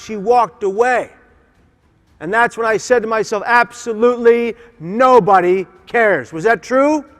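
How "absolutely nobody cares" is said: louder, drawn-out and heavily stressed; emphatic despair. Retold or imitated. Man on the bridge telling himself he is alone, emphatic despair. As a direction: declare it as an absolute, word by word. Retelling his despairing thought before jumping.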